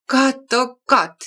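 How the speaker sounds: slow, loud groaning lament; drawn-out despairing moan. A narrator's reading. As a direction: groan it out to the heavens. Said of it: "stöhnte Mama".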